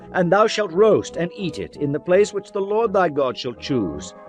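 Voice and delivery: ordinary delivery, nothing marked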